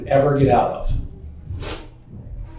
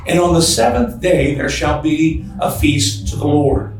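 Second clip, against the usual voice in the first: scripture reading. Acted. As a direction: read the verses with weight. Reads scripture aloud in sermon.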